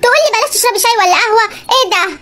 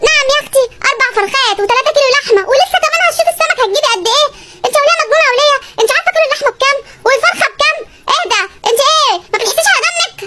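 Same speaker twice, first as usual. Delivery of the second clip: higher, indignant husband scolding his wife; outraged scolding; 4 semitones higher than usual. Acted. Stingy husband scolding wife over meat prices, higher outraged voice. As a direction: scold her as if she's lost her mind.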